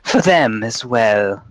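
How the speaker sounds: slow, lightly voiced witch; sly crone. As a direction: offer it with mock generosity. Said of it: "she says".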